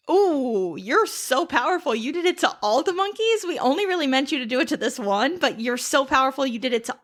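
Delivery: high, gushing, flattering voice; fawning flattery. Retold or imitated. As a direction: lay the flattery on thick. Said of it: "and then also".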